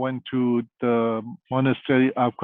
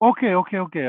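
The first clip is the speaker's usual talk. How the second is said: higher, hurried "okay"s, mildly acted; mock scared agreement; 6 semitones higher, much faster than usual. Father giving in to the holy man, mildly mock-scared. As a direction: imitate a cowed father giving in quickly. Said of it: "my father kind of scared".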